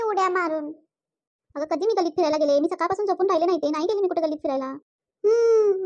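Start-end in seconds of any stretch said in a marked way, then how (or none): 1.6-4.8 lower, fast indignant denial; mother-in-law hotly denies roaming the lane; indignant old mother-in-law. Acted. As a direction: brush off the accusation in a rush.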